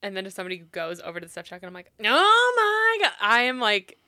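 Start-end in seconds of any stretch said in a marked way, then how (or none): 2.0-3.1 loud, slow drawn-out exasperation; loud slow outraged sigh of words; exasperated groan. Retold or imitated. Retold exasperation.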